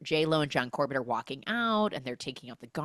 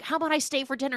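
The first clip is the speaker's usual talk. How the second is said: high-pitched eager offer; mock cheery suggestion; 9 semitones higher, much faster than usual. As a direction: pipe up hopefully. Retold husband inviting himself to dinner.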